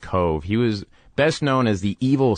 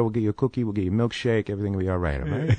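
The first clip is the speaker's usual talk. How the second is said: put-on softer, soothing voice, like calming a kid; soothing reassurance; 4 dB quieter, much faster than usual. Actor calming his young driver, soft and soothing. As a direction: coax him gently, promise it'll be fine.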